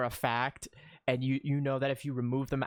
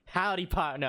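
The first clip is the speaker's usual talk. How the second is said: imagined cowboy greeting; 5 semitones higher than usual. Pretend. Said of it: "If he actually just says".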